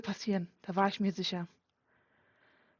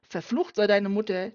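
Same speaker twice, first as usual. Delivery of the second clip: bitter curse; 6 dB louder than usual. Acted. Father curses in rage.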